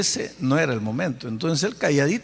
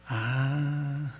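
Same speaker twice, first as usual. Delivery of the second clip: Spirit's chiding voice. Retold or imitated. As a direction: gently scold a stubborn child. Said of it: "una voz como diciendo". (la voz de Dios lo reprende con suavidad y lentitud)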